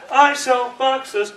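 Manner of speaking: "I sell boxes" slow, word by word; staccato. Shown as a demonstration. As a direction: punch out "I sell boxes" one word at a time. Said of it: "that's the pronunciation".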